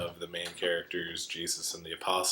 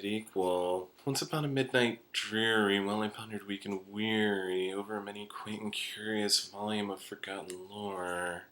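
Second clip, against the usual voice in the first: lightly voiced drony monotone, a little softer, slowish; Andy Warhol drone; 3 dB quieter than usual. Mimicking a singer's Warhol reciting random lines: mild drony monotone. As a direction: recite anything in one even, bored tone with a slight whine at the ends. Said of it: "same exact tone with this drony monotone".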